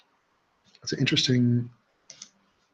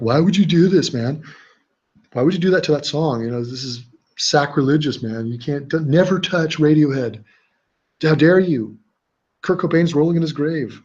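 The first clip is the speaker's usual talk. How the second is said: imitating an indignant music fan, slightly raised pitch; mock outrage; 2 semitones higher than usual. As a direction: protest like an offended fan, hammed up a little. Voicing outraged mashup haters in comments.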